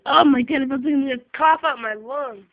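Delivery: breathless, slow laughing fit; hysterical laugh. Real, not acted. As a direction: laugh until you can't breathe. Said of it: "I can't breathe".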